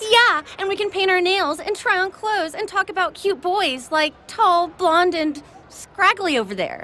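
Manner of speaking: sarcastic. Acted. Mocking the friendly offer.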